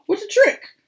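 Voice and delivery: high, loud delighted exclamation; ringing delight. Acted. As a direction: grandpa amazed by the trick. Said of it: "His voice rang down the hall".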